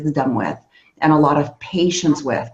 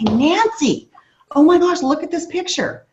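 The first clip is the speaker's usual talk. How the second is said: mock delight; 9 semitones higher than usual. Acts out showing Nancy results.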